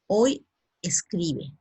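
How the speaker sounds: "Hoy escribe" said slowly and clearly; slow model answer. Shown as a demonstration. Teacher modelling the present tense slowly. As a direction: spell the answer out for the class at half speed. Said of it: "¿Suena bien?".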